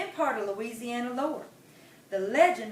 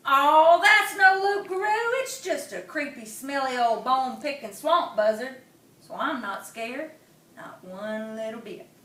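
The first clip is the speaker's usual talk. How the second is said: possum voice; 6 dB louder than usual. Acted. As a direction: squeak it out, brave and small.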